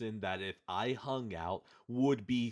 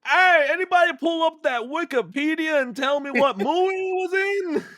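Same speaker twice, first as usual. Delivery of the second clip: loud movie talker; 9 dB louder than usual. Retold or imitated. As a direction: blurt it out mid-scene. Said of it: "he'll just be like".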